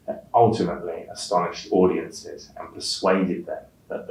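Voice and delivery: exam read-aloud with key words like not leaned on harder; stressing key words. Shown as a demonstration. Teacher demonstrating word stress for students, key words stressed. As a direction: model reading that lands on the important words. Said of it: "Stressed words are louder and longer".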